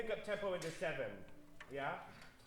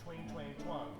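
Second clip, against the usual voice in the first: lazy twang; 3 semitones lower, slower than usual. Shown as a demonstration. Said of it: "when you're lazy".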